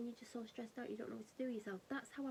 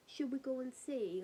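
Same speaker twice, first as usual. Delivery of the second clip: whispered; 3 semitones higher than usual. Retold or imitated. Asking the family whether to go outside, hushed whisper. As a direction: breathe the question out without voice. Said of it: "we were like".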